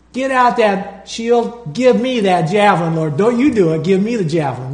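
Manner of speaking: worked-up, demanding battle prayer; acted-out impatient commands, easing off at the end; angry prayer. Preacher showing how he demanded God's weapons, mad. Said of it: "That's how I was saying it".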